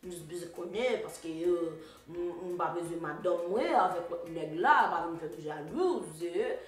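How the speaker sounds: lightly mocked French Creole jealous man; a hint of French Creole male voice; his French Creole talk. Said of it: "that's how he talks".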